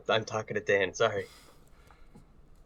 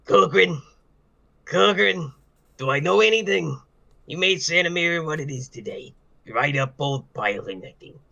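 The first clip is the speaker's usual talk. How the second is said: vagrant. Acted. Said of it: "do your vagrant voice".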